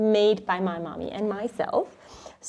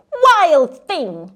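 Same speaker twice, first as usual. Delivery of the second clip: mild mock yell; 4 semitones higher, 10 dB louder than usual. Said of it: "His mother called him".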